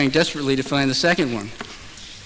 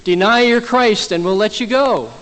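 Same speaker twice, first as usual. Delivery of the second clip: louder, higher, insistent command; pressing demand; 4 semitones higher, 4 dB louder than usual. Retold or imitated. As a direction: press hard for an answer. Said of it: "pressed him hard and".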